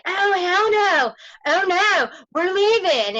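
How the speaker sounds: loud, high upset protest; upset outburst. Retold or imitated. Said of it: "And I was like".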